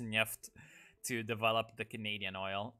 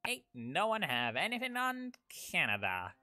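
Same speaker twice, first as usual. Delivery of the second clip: high-pitched, hammed-up British accent; cringe British voice; 7 semitones higher than usual. Streamer playing at oil barons, cringe British voice. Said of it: "doing the cringe British voice".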